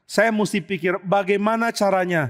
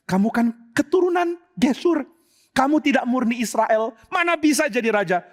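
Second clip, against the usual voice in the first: mocking bystander; 5 semitones higher than usual. Bystander mocks Absalom.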